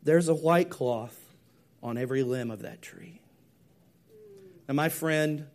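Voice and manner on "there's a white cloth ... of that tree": gentle voice. Acted. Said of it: "in a gentle voice said".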